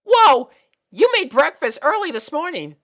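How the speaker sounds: high, loud delighted whoa; amazed at breakfast; young filly surprised. Acted.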